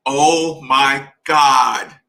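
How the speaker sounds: slow, drawn-out loud "Oh my God"; blissful exclamation. Retold or imitated. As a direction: savor it like the best bite of your life. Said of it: "and I'm like".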